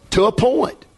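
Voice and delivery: "to a point" lifted and set apart; stress on "to a point". Retold or imitated. Pastor qualifying his answer to a fellow preacher, emphatic "to a point". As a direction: set off "to a point", pitch rising at the end. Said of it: "I emphasize that".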